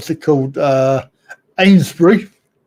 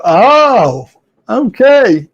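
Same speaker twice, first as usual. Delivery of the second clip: drawn-out oh, higher okay; mock polite acceptance; 3 semitones higher, much slower than usual. Foreigners reacting to the distance from London, mock acceptance. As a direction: imitate a foreigner taking it in. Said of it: "And they go".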